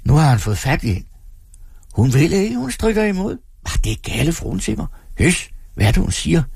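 high excited onlookers; excited crowd. A narrator's reading. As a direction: narrate the rescue breathlessly. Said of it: "Mængden". (tilskuere der råber begejstret)

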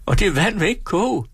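a flustered landlady wailing at the pot; flustered hostess. Acted. Frantic hostess fussing at the stove that won't boil.

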